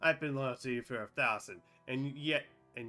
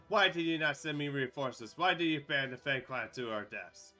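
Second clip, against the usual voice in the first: angry demand; 2 semitones higher, 7 dB louder than usual. Acted. Betrayed knight confronts queen.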